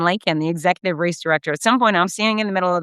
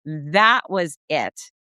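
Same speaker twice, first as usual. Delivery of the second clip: that was it said slowly; slow, drawn out; 3 semitones lower, much slower than usual. Real, not acted. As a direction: stretch out that was it. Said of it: "repeated phrase".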